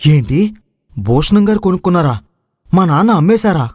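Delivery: rising, stunned questions; can't believe his father sold it; shocked disbelief. Acted. Venu learns the land was sold.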